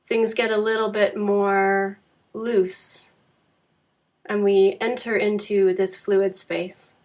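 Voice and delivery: calm, unhurried Yoga Nidra guidance with long pauses; measured meditation teacher voice, phrase by phrase; guided meditation. Acted. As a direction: guide a resting listener gently, leaving space between phrases.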